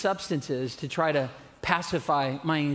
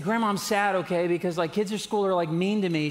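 higher, laughing, mock whiny kid; sulky teen self; 3 semitones higher than usual. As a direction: play your moody fourteen-year-old self with a laugh. Teen self complaining to grandma.

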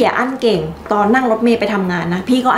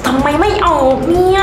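higher, tight voice while pushing; straining; 5 semitones higher than usual. Acted. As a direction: strain through the words. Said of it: "ทำไมพี่สาเขาร้องดังขนาดนั้นน่ะ".

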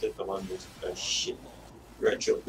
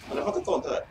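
frustrated shout; much faster than usual. Real, not acted. Frustrated at game.

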